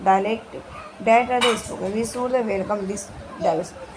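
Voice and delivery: slow, careful reading of an English passage; textbook reading. Acted. Teacher reading the textbook paragraph to students, slow and deliberate. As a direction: read each phrase out slowly for the class.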